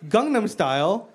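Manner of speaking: high, stunned disbelief; can't believe what they just yelled; incredulous. Retold or imitated. Comic reacting to hecklers, high incredulous outrage. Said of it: "I'd be like".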